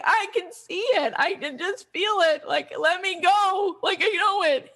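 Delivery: high, urgent retold conviction; impassioned insistence. Young Doctor King answering his doubters, impassioned insistence.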